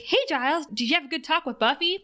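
high, bright-eyed and quick, all chipper; chipper Willow. Retold or imitated. Willow cheerfully asks Giles about his talk, chipper. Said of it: "She's all chipper".

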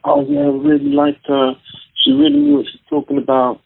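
high, gushing mock voice; a light mock of an admiring audience; impressed audience. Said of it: "they're like".

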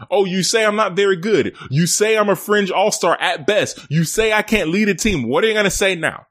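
Jimmy Butler. Retold or imitated. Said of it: "Jimmy Butler".

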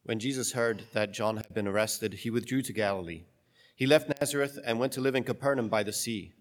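solemn, measured scripture reading; gospel reading. Acted.

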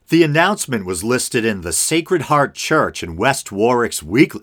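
article read aloud with lively emphasis; news read. Acted. Host reading a Newsweek story to listeners, news read. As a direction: read it out like a news item, key words lifted.

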